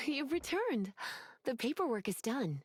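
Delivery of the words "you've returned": a small gasp, then a higher, slow greeting; pleased surprise. Acted. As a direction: caught off guard in a nice way, take your time. Lisa greets their return.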